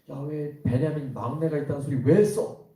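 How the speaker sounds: loud, high-pitched scolding outburst; angry father. Acted. Angry father berating his sons for mentioning their youngest brother. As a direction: scold them loudly, voice climbing. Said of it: "아버지가 막 화를 내는 거예요".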